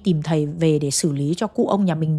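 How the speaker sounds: low, subdued retold plea; weary and sad. Weary eldest son confides in his uncle, sadly. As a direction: voice a tired man reluctantly giving in. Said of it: "rất mệt mỏi và buồn ấy".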